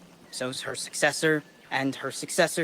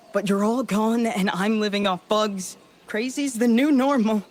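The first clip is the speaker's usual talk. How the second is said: climbing higher and louder, nearly unhinged; desperate outburst; 5 semitones higher, 3 dB louder than usual. Acted. Stranded colonist telling lost listeners he's going crazy, rising desperate outburst. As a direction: let it spill out, voice rising toward breaking. Stranded man ranting into the recorder.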